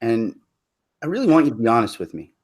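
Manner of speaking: soft, earnest question; sincere. Retold or imitated. Man earnestly approaches a girl, soft and sincere. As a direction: sound dead serious and sincere. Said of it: "I go up to girls sincerely and go".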